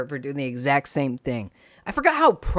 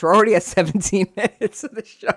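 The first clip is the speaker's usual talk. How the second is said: laughing disbelief; 6 semitones higher, 3 dB louder, faster than usual. Real, not acted. Host noticing the show's running long, laughing disbelief. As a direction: voice climbing high into a laugh. Shocked at time, breaking into laughter.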